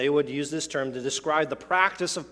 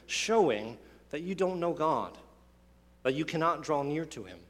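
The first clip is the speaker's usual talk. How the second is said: a hint of Paul rebuking, raised and forceful; Paul's rebuke. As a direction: deliver Paul's insult with rising force, then let it drop. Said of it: "and he says".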